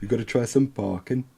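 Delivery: put-on tentative go at a Yorkshire accent; half-hearted imitation Yorkshire accent; attempted Yorkshire accent. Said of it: "I can't do accents".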